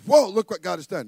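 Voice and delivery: excited. Acted. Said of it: "He's excited".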